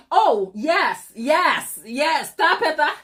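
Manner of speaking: real delighted laughter; laughing yes. Real, not acted. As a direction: cackle through the words. Laughing excitedly at chat joke.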